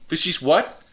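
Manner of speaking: high, angry screeching yell; imitating a furious lady yelling back; furious outburst. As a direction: shriek the swearing at him. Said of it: "And she's like".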